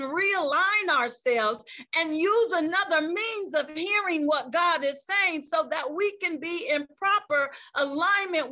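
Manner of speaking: rising to a full preaching shout on saying; preacher swelling to a shout. Real, not acted. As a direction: build up and cry it out to the congregation.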